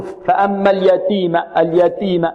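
اليتيم with the t wrongly stripped of its breath; unaspirated taa. Shown as a demonstration. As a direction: say اليتيم with a dry t, no puff. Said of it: "يظن أن التاء غير مهموسة".

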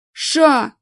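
loud high barked shout; barked hush. A narrator's reading. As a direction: bark it to shut them up. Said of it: "гаркнул тот".

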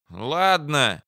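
high-voiced commander giving in; burly officer relenting; grudgingly deciding big man. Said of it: "наконец решился здоровяк".

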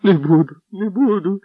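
high, keening lament; a beaten man howling his plea at the boots; wailing. A narrator's reading. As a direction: wail the plea. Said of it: "голосив Генріх".

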